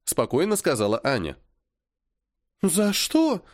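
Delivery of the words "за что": high, breathed-out surprise; stunned tearful why, higher; surprised breath. A narrator's reading. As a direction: gasp the question in disbelief. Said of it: "удивлённо выдохнула Полина".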